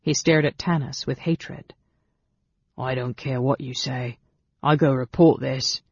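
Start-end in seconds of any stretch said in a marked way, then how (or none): 2.8-5.8 sullen goblin voice; defiant goblin. A narrator's reading. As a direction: dig in stubbornly as a resentful goblin. Scowling goblin defies her.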